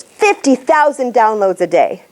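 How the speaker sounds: "fifty thousand" punched, slowly; slow, stressed "fifty thousand downloads"; punched numbers. Shown as a demonstration. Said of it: "words that if we punch".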